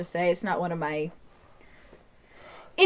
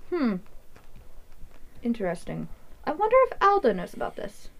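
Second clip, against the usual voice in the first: mild scheming NPC; 3 semitones higher than usual. Acted. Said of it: "He says".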